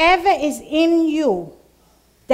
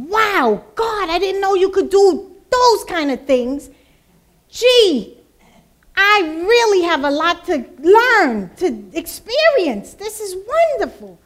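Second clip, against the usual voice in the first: higher, louder wide-eyed wonder; amazed delight; 4 semitones higher, 4 dB louder than usual. Retold or imitated. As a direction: gush with amazement at God. Retold joy at testimonies.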